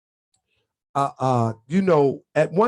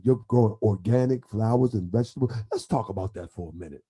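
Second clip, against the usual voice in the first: Grand Sheik radio voice; 8 semitones lower than usual. Retold or imitated. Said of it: "He be like".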